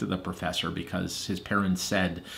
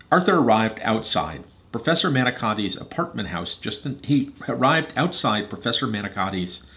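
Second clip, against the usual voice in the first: measured, expressive storytelling; story narration. A narrator's reading. Reader telling Hadley and Eliza Arthur's story, narrating. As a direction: read a storybook aloud to children.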